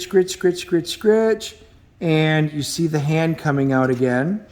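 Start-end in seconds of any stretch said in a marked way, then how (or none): 0.0-0.7 scratching noise. Retold or imitated. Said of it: "She hears scritch". 0.7-1.6 scratching noise. Retold or imitated. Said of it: "She hears scritch".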